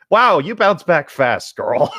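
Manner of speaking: dry mock admiration; sarcastic quip. Real, not acted. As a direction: drag out the sarcasm. Sarcastic remark on the story.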